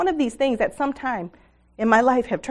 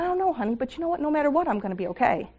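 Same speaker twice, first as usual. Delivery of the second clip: put-on higher, soft, hushed reassurance to a child; tender reassurance; 4 semitones higher, 5 dB quieter, faster than usual. Mother answering her frightened son, high and hushed. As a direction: gently reassure your worried son.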